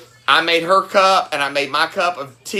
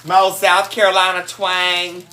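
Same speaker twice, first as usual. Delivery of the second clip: laughing; 2 semitones higher than usual. Real, not acted. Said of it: "my accent is my".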